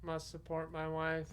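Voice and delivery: flat robot monotone, word by word. Retold or imitated. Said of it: "he started talking like a robot".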